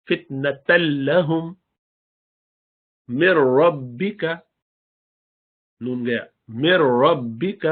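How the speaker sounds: فتنة لهم with the tanween nun gone into lam; no ghunna, slow. Shown as a demonstration. Teacher reciting: nun dropped into lam. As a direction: stretch slowly, doubled lam.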